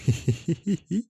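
short, soft giggle; sly giggle. A narrator's reading. Narrator pleased his plan worked, sly little giggle. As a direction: giggle quietly at your own plan.

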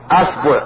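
أصبع said "asbu'", a then u; fatha, then damma. Shown as a demonstration. Teacher showing fatha forms, أصبع as "asbu'". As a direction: say أصبع with a on hamza, u on baa. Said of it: "ثم نأتي بفتح الهمزة".

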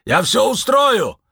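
высокий громкий оклик; прокричать вдогонку; оклик вслед. A narrator's reading. Лунветр кричит вслед. (Лунветр кричит вслед уходящим)

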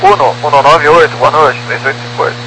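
tinny radio transmission voice; crackly cockpit radio readback; pilot over the radio. Real, not acted. Pilot reading back over radio.

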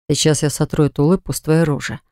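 low, grinding threat under the breath; a mild growl through clenched teeth; through gritted teeth. Acted. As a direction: brother seething before he charges. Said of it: "проскрежетал зубами Левон".

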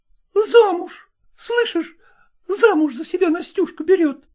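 high, gleeful chatter; excited singers. A narrator's reading. Singers from the next room, excited. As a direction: call to the other girls in delight.

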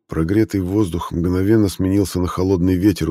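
usual speaking voice

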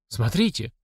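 usual speaking voice

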